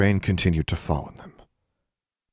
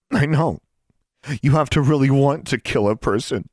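high, louder, firmer voice; stronger voice; 9 semitones higher, 6 dB louder than usual. Acted. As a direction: gather your strength and push. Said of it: "Mary's voice gained strength".

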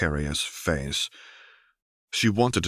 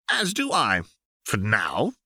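put-on high, reluctant old man voice; grudging baron; 4 semitones higher than usual. A narrator's reading. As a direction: give it with hesitant reluctance. Smeech grudgingly agrees.

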